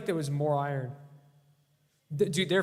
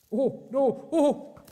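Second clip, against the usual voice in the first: dismayed; 8 semitones higher, 4 dB louder, slower than usual. Real, not acted. Losing his iron, dismay.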